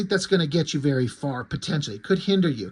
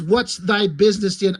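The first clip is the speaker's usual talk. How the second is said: plain; 4 dB louder than usual. Acted. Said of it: "the one warrior nun says".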